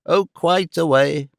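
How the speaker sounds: slow, lovesick sigh of a line; languishing. A narrator's reading. Old gentleman sighing at Mrs Nickleby, slow and languishing. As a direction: drag it out like a mooning suitor. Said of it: "with a languishing look".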